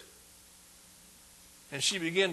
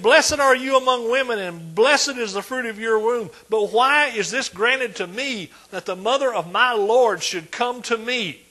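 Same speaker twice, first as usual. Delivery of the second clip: raised, ringing declamation; loud proclamation; 4 semitones higher, 6 dB louder than usual. Acted. Preacher as Elizabeth prophesying over Mary, loud proclamation. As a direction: proclaim it loudly, drawing out the question. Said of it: "She said that loudly".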